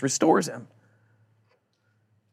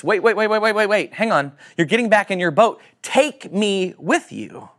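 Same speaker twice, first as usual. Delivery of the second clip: urgent plea; 5 semitones higher than usual. Retold or imitated. Healed man urgently begging Jesus not to leave him. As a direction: stop him before the boat leaves.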